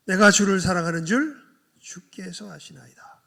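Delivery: loud, pained answer of Peter; distressed, urgent confession; grieved plea. Acted. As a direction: cry it out in grief. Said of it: "근심하여 대답하여 가라사대".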